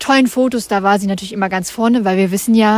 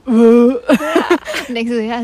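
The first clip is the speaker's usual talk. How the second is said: laughing; 4 dB louder, much slower than usual. Real, not acted. Laughing while telling photo story.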